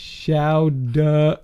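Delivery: Boston Chowda, dropped r, long aw; Boston accent. Shown as a demonstration. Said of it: "chowda with a D".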